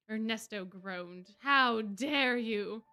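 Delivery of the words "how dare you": enraged. Acted. Villain struck, enraged.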